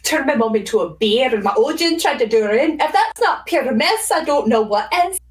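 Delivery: put-on Scottish film-character voice; mock Scottish storyteller; Scottish accent like Brave. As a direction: lay on a Scottish lilt. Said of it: "We're watching Brave".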